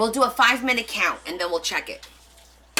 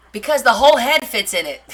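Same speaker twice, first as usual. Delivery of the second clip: laughing through it; 5 dB louder than usual. Real, not acted. Giggling through an embarrassing explanation.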